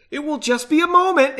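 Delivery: acted calling-back reply; called out. A narrator's reading. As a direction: toss it back loudly over a distance. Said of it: "Henry called".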